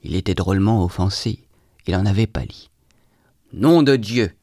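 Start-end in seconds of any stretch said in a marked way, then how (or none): 3.5-4.3 moderately raised outraged oath; angry yell. A narrator's reading. Trudolyubov pounding the table at an insult, angry yell. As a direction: swear aloud with controlled outrage. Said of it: "hurla Trudolyubov".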